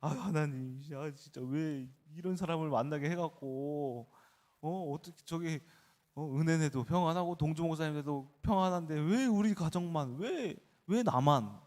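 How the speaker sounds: mock-tearful plea to God, rising in pitch; retold tearful complaint. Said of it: "막 울면서". (울며 하소연하던 모습을 흉내 내듯)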